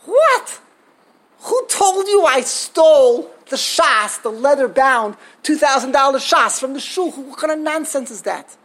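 loud, indignant protest, slowed on the opening; outraged rabbi. Retold or imitated. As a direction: bristle with disbelief at the accusation.

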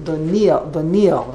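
"Doniel" with the emphasis on the N; common pronunciation. Shown as a demonstration. Teacher quotes how everyone says the name, "Doniel" stressed on the N. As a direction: run "Doniel" together without a Y sound. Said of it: "puts the emphasis on the nun".

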